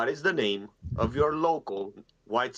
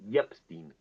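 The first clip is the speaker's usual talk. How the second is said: Yepstein with a Y glide, lower pitch, imitating a Scandinavian accent; 4 semitones lower than usual. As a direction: copy his Scandinavian Yepstein. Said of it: "I just love it how you say it".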